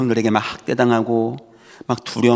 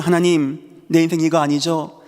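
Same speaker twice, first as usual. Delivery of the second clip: higher, earnest plea to God; pleading prayer; 5 semitones higher than usual. Retold or imitated. Joseph praying while sold away, higher pleading. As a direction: beg God to keep his word. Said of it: "팔려가면서도".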